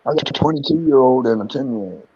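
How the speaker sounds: talking without teeth in; slurring around loose teeth; loose dentures. Real, not acted. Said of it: "I need to put my teeth in so I can talk right".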